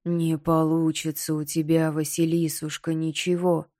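gloating talking skull. Acted. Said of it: "клацнул челюстью Найдён". (клацающий череп)

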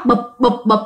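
short spoken thumps; imitated knocking. Unseen thing knocking on the family's wall, imitated knocking. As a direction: sound out each knock separately. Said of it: "hoặc là gõ".

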